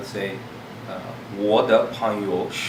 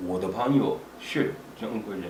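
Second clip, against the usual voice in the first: flowing everyday pace, syllables run together; natural rhythm; 5 dB quieter than usual. Shown as a demonstration. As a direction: say it the way it is said in real speech. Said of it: "once you get the natural way of saying it".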